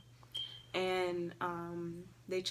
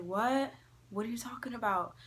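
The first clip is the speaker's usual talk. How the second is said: higher, startled questioning; puzzled dad; 3 semitones higher than usual. Retold or imitated. Dad answers the panicking kid, puzzled and higher. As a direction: imitate a baffled dad. Dad's puzzled reaction retold.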